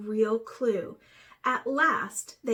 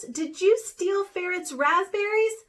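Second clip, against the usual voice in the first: higher, louder accusation; accusing; 6 semitones higher, 6 dB louder than usual. A narrator's reading. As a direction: demand an answer. Accusing Raven.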